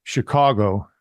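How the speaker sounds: "Chicago" in the host's own everyday way; own Chicago pronunciation. Shown as a demonstration. Host confessing how they say it, own pronunciation of "Chicago". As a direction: say "Chicago" the way that gets you grief. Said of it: "I get grief, Mitchell, because I say".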